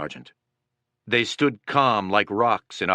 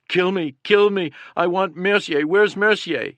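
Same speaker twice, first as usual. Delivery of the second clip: high, loud desperate cries; dying soldier calling for Mercier, high and loud; calling out in agony; 8 semitones higher, 5 dB louder than usual. A narrator's reading. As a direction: cry out for his sergeant in pain. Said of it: "He was sobbing".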